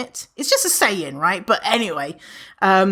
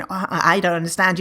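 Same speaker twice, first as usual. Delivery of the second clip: computer brain; 3 semitones lower, faster than usual. Retold or imitated. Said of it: "that's the computer brain going".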